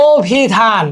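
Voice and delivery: অভিধান opened on a held "o"; o-vowel pronunciation. Shown as a demonstration. Teacher giving an example of the rule, অভিধান as "o-bhidhan". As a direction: lean into the first o of অভিধান. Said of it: "উচ্চারণ সাধারণত ওকারের মতো হয়".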